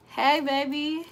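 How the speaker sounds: softened voice to a partner; tender greeting. Real, not acted. Woman greeting her man on the phone, tender. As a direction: greet your sweetheart gently.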